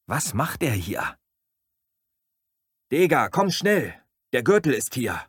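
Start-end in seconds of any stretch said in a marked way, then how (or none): 2.9-5.2 high, loud urgent call; urgent yell for help. Acted. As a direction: shout to Dega to hurry.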